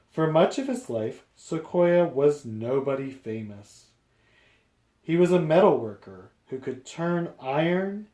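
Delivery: lively picture-book read-aloud; reading to children. A narrator's reading. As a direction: read it out to a class.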